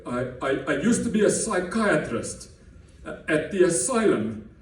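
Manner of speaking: light hint of a thick German Afrikaans accent. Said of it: "in his thick German Afrikaans, uh, accent".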